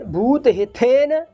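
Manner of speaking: भूत हिथेन with an aspirated थ, the wrong way; wrong pronunciation. Retold or imitated. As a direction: imitate the mistake हिथेन. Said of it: "ये हम नहीं सुनेंगे". (गलत उच्चारण हिथेन)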